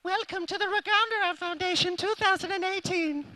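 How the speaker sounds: high announcer voice; mock grand announcement.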